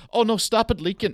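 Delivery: high, panicked "Oh no" squeal; mock panic over the leaking bottle; panicked cry. Smashed bottle leaking in the bag, high mock panic.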